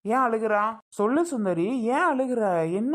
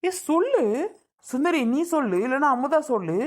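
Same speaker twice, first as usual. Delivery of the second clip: insistent; 4 semitones higher than usual. Acted. Brother presses silent sisters to answer.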